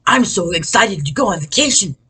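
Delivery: overdone loud gushing, high swooping pitch; too loud. Shown as a demonstration. Speaker showing the audience what too loud sounds like, too loud. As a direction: blurt it far too loudly and excitedly. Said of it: "speak too loud, loudly".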